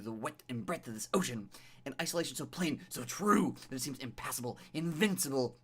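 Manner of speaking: measured second-person game narration; dramatic story narration. A narrator's reading. Streamer reading the game's beach scene to viewers, dramatic narration. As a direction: read it like an atmospheric tale.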